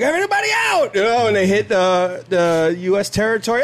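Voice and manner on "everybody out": very high, fast mock yell; hammed-up high-pitched evacuation call; acted calling out. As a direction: call out a jump order in pretend panic. Acting order to jump from plane.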